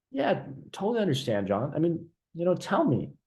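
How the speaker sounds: a little unsure, slightly stumbling; hesitant confused. Shown as a demonstration. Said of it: "kinda stuttering a bit".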